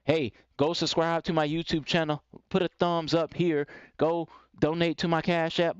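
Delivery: confident streamer giving instructions; assertive. Shown as a demonstration. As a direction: tell viewers outright what to do. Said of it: "people say that because that's assertive".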